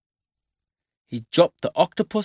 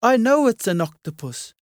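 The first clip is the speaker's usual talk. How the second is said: shout; 7 semitones higher than usual. Acted. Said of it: "shouted Mum".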